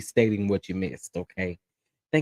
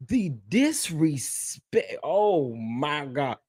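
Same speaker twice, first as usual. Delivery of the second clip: 1 appalled murmur; 3 semitones higher, 4 dB quieter, much slower than usual. Real, not acted. Appalled, slow and soft.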